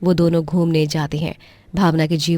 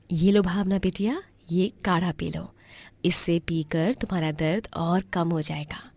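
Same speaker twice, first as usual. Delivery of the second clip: soft, caring motherly voice; tender mother; 5 dB quieter than usual. Acted. Divyam's mother tenderly comforting Bhavna with herbal tea. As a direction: comfort her like a daughter.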